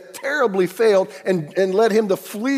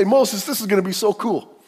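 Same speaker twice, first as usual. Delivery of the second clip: excited God; 6 semitones higher, 5 dB louder than usual. Acted.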